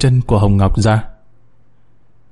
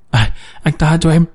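a touch of a begging wail, higher; mild pleading cry; 4 semitones higher than usual. Acted. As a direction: plead for mercy, understated. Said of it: "kêu gào". (khẩn khoản van xin nhẹ)

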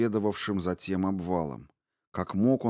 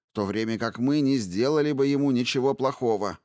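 angry accusation; 4 semitones higher than usual. Acted. Angry leader accuses wizard.

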